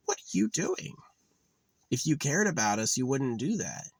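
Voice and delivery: high whiny complaint to god; pleading at the creator. Retold or imitated. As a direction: wail up at the creator. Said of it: "It's like".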